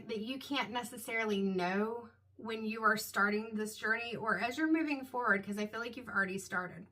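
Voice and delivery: talking through hiccups; hiccuping between words. Real, not acted. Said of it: "Excuse the hiccups".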